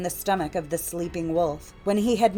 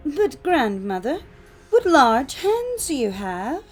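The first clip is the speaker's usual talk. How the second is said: put-on high, slow child's wonder; drawn-out amazed girl; astonished little girl; 7 semitones higher, 5 dB louder, slower than usual. A narrator's reading. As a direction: marvel with big swooping high pitch. Girl marvels again.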